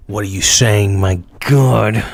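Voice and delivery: repeats the question in a put-on voice. Shown as a demonstration. Streamer to chat, a lightly put-on voice. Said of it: "repeats the line in a put-on voice".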